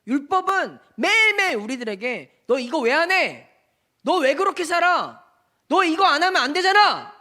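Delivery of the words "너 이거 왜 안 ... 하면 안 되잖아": scolding voice. Acted. Law scolding us daily.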